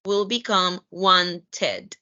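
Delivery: wanted with a full extra syllable, WANT-ed; past tense ed. Shown as a demonstration. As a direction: say wanted as two syllables ending in -ted. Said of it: "in past tense".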